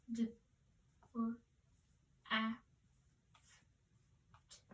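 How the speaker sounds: each sound of "drift" said apart with pauses; segmented sounds. Shown as a demonstration. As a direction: tap out "D, r, i, f, t" one phoneme at a time. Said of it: "Number two was".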